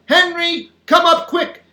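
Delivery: high, loud summons; yelling. A narrator's reading. Mother calling daddy to the bath, yelling. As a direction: yell it up high, urgently. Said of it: "she yells".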